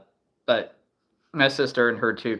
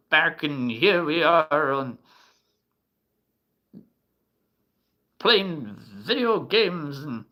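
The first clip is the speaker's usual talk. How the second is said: put-on croaky grandpa scolding kids. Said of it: "let's do the higher pitch first".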